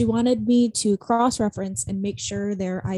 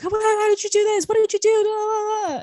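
high, loud mocking whine of questions; mock rambling interrogation; 11 semitones higher, 6 dB louder than usual. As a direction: imitate a flustered coworker firing questions, voice pitched way up. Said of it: "rambling off, like, asking me questions".

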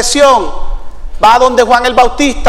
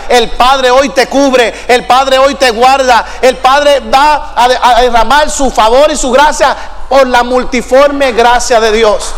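slow, emphatic preacher's blessing; pronouncing a blessing; slower than usual. Real, not acted. Preacher blesses the congregation, slow emphatic proclamation. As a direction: draw out each promise with conviction.

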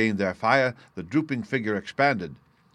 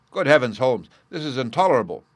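raised, mildly outraged protest; indignant exclamation; 3 semitones higher, 5 dB louder than usual. Acted. Watson to Holmes on hearing of the fire, indignant exclamation. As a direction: exclaim in shocked indignation, a little louder. Watson hears rooms were set afire.

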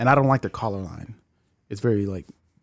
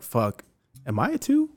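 imitated girl; 5 dB quieter than usual. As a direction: squeak it like a worried girl. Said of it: "think to herself".

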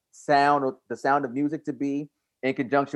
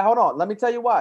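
louder and higher, demanding to be heard; raised insistent voice; 7 semitones higher, 4 dB louder than usual. Real, not acted. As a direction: push over the others to keep talking. Insisting on the floor in argument.

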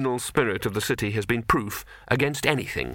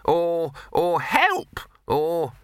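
put-on old man musing; 6 semitones higher, much slower than usual.

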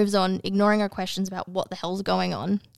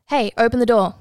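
urgent call; 2 semitones higher, 6 dB louder than usual. Acted. Trapped woman rattles locked door.

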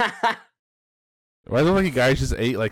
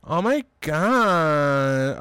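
put-on girl voice; much slower than usual. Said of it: "try doing your best girl voice".

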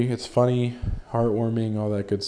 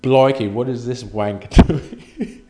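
loud hammed-up British exclamation; mock British listener; 3 semitones higher, 12 dB louder, slower than usual. Imagined English listener reacting, loud mock British voice. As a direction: shout it like a baffled Londoner, laughing. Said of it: "you'd be like".

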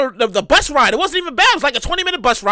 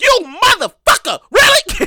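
disbelief; 6 semitones higher, slower than usual. Retold or imitated. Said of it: "I'm like".

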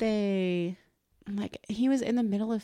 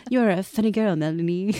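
put-on French accent; 6 dB louder than usual. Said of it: "To some French".

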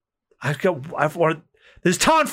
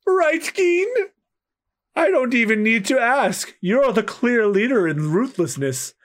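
sneering pirate; 8 semitones higher than usual. Acted.

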